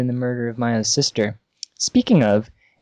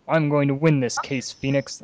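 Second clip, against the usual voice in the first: Godot attempt. Shown as a demonstration. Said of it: "sounds kinda like Gumshoe".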